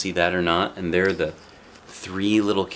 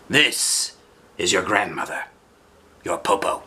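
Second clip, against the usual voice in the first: sly wolf voice. Acted. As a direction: coax them like a sly old wolf. Wolf disguised as grandmother.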